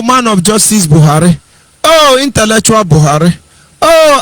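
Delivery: mildly mocking, pleading voice of supporters; lightly voiced mock plea, near his normal voice; mock begging. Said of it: "They are not begging Buhari".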